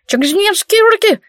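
high, sly giggly thief voice; giggling. Acted. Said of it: "хихикнул вор".

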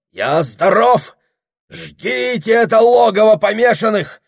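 high, loud, panicked yelling; frantic yelling of commands; frantic shouting. A narrator's reading. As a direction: bellow for servants and police. Madman calls for help.

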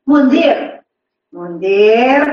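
put-on loud call to a child; mother calling out. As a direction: call the boy's name out loudly. Acts mother calling her running son.

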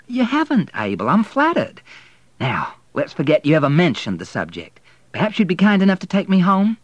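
high, loud, brisk politeness; condescending brightness at high pitch and volume; breezy dismissal. A narrator's reading. Woman briskly closes the awkward subject.

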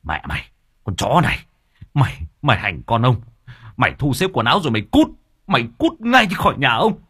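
screaming at his wife to get out; furious shout. Acted. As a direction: throw her out in blind fury.

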